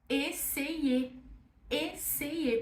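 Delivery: "essayer" with an e sound in the middle; slow, even "essayer"; French essayer. Shown as a demonstration. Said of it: "com som de E no meio".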